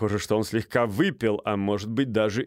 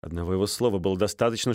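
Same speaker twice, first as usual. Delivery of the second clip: plain reading voice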